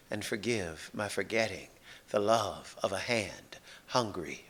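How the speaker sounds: slow, measured reading with weighted pauses; solemn poetry reading, words set apart; poem recitation. Acted. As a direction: recite it like a prayer, phrase by phrase. Reads own poem aloud.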